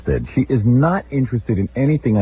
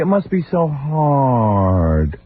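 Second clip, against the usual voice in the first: higher, very slow, drawn-out sympathy; mock pitying sister; 5 semitones higher, slower than usual. Brother mocks sister's visit, syrupy slow pity. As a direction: overdo fake pity like a condescending sibling. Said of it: "my sister walked in last night".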